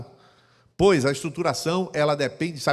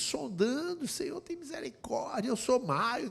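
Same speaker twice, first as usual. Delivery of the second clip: imitated tearful prayer; 9 semitones higher, 6 dB quieter, slower than usual. Voices wife's tearful prayer.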